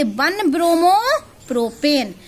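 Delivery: drawn-out repeat for the class; slow, deliberate teacher's prompt; slow dictation. Real, not acted. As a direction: stretch the words out, tune left rising.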